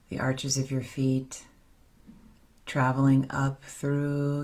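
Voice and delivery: unhurried, slightly softened meditation voice; guided meditation. Acted. Leader guiding the circle back into their bodies with breath, guided meditation. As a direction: guide them into the breath, leaving long pauses.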